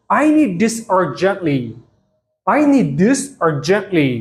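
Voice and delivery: slow, careful teacher pronunciation; each word laid out for learners to copy; slow model sentence. Shown as a demonstration. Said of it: "ብፕሮናንሴሽን ተጠቒሞም ከመይ ከም ዘንብብዎ". (ቀስ ኢልካ ብጥንቃቐ ምድምጻጽ)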